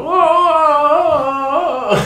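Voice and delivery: high sung whoa; a long high Morty wail for the neighbors. Acted. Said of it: "I just go".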